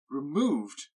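shocked at the very idea; startled cry. Acted. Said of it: "cried Bingley".

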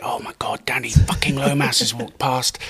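hushed, awestruck whisper; breathless fan whisper as a celebrity walks by; starstruck whisper. Retold or imitated. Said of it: "interns and that used to sort of lose their shit".

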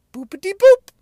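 put-on high, loud squeaky baby voice; mock the dumb video in a cartoon squeak; squeaky mock baby talk; silly cutesy voice. Mocking silly TikTok content.

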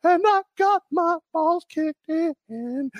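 high, slow pained whimper; a hammed-up pained whimper; high mock whine. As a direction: whimper it like a wounded man. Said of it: "How Jeffy got his groove back".

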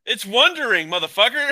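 loud "wandering" said like "wondering"; accented pronunciation. Real, not acted. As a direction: insist on "wandering" with an "uh" vowel, loudly. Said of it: "Can you say the word".

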